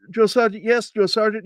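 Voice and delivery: high, stiff military response; imitated recruit at attention; recruit answering sergeant. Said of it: "so I'm like".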